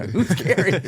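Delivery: high puzzled voice; confused high question. Retold or imitated. Friend's confused reply, pitched up.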